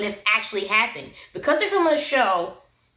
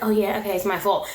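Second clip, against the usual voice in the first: fake nonchalant; 3 semitones lower than usual. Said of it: "That fake nonchalant".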